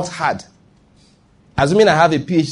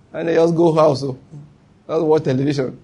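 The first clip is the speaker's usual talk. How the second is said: laughing. Real, not acted. Laughing at the story's punchline.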